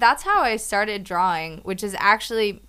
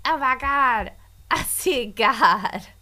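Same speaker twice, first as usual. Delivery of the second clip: mock awed trance; 3 semitones higher, slower than usual. Mock drugged revelation.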